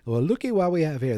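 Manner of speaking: leer it like a creep; leering bully. Retold or imitated. Biff leering.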